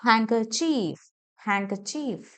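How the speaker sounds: ഹാൻകർച്ചീഫ് as "hang-kuh-CHEEEF"; long final EE. Shown as a demonstration. Teacher shows the long sound, stretched ending. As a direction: draw out ചീഫ് at the end of ഹാൻകർച്ചീഫ്. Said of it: "long ആയിട്ടാ പറയണത്".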